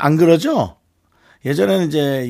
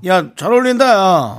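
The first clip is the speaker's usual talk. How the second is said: acted compliment; 4 semitones higher, 5 dB louder than usual. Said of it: "어떤 말을 좀 해줬을까요".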